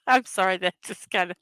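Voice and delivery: apologizing through real laughter; giggly, broken-off apology; laughing. Real, not acted. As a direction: try to talk while cracking up at a silly joke. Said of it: "made me laugh".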